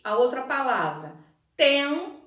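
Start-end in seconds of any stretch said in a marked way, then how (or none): 1.6-2.2 "temporário" split into tem, po, rá, rio with long pauses; syllable by syllable. Shown as a demonstration. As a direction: dictate "temporário" one syllable at a time. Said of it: "dúvida em como separar".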